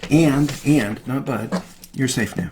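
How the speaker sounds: calm grounding phrase; gentle repetition. Shown as a demonstration. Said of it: "And then you just repeat it".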